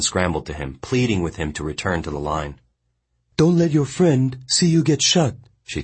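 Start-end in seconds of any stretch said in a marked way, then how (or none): 3.4-5.4 high, louder woman's voice; Mongnan's urgent plea. A narrator's reading. Mongnan urgently pleading with the boy over the guards.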